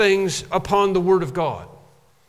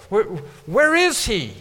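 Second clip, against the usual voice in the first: higher, louder anguished plea; crying out; 4 semitones higher, 3 dB louder than usual. Acted. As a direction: cry out to an absent God. Preacher cries out for God.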